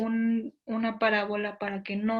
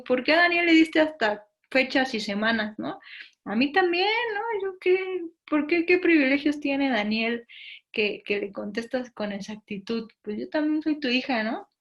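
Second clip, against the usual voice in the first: mock indignant complaint, louder and higher; complaining to God; 4 semitones higher, 3 dB louder than usual. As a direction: protest like a jealous daughter. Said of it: "le reclamo a Dios y le digo".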